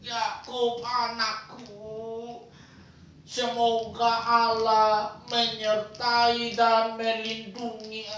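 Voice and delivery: lightly played frail grandfather; old grandpa voice. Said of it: "meniru gaya kakek-kakek toh". (suara kakek-kakek yang pelan)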